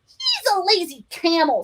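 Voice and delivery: high mock kid yell; lightly voiced boy shout; high child taunt; child's scream. A narrator's reading. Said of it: "screamed Richard".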